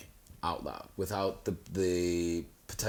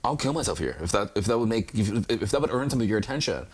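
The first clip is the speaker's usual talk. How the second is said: mock desperate plea, louder and building; exasperated exaggeration; 2 semitones higher, 6 dB louder than usual. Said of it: "I'm like".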